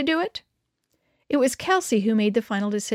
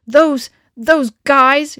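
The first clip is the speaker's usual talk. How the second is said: slow, louder, fuming sputter; 4 semitones higher, 9 dB louder, much slower than usual. A narrator's reading. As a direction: choke on the words in anger. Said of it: "she sputtered".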